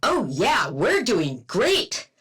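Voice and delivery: dopey voice with a slow, drawn-out 'we're doing great'; idiot impression. Mocking the squad with a dumb impression, dopey and slow. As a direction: play it dim-witted and sarcastic. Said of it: "That's my idiot impression".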